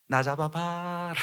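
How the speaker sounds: slow, coy "catch me" tease; drawn-out, teasing sing-song; mock flirty chase call; playful taunt.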